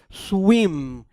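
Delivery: swim held long, closing on the m; swim as one syllable. Shown as a demonstration. Teacher showing the mouth closes, drawn-out single-syllable swim. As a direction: open once for swim, then close. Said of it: "E fechamos a boca".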